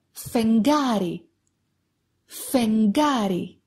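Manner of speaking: slow "φεγγάρι", γγ said ng-g. Shown as a demonstration. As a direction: model "φεγγάρι" slowly as feng-GA-ri. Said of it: "It sounds like γκου and the same".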